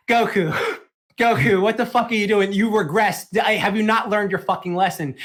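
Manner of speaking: exasperated retelling of a reprimand; retold exasperated scolding. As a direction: scold Goku in disbelief, half laughing at first. Others scold Goku in retold scene.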